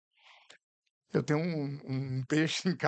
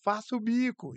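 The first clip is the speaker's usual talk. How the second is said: imitating the teacher; 8 semitones higher than usual. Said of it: "mas ela".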